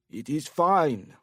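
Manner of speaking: put-on slow, slurred drunk man; slurred drunk speech. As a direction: let the words slide together, tipsy. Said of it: "his speech clearly slurred".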